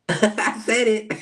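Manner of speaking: mock Aries owning it, high and slow; blunt Aries. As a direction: plant it slow and proud, no apology. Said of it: "your Aries is like".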